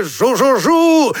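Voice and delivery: high, drawn-out aeroplane buzz; slow, high imitation engine noise; shouted buzzing. A narrator's reading. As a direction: buzz like children playing planes. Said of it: "и кричали".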